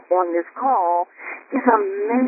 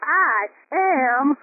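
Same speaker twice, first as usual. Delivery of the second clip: soaring affirmation; much slower than usual. Shown as a demonstration. Host showing the call how to declare it, soaring. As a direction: voice swoops way up on amazing. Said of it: "like I said it".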